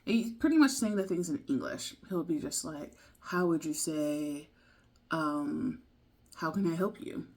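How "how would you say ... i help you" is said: lightly voiced posh narrator; distinguished gentleman. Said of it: "deeper extinguished gentleman voice".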